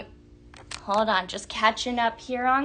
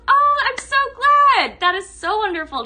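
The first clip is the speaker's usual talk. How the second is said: excited; 11 semitones higher, 7 dB louder than usual. Real, not acted. Viewer ordered products, host thrilled.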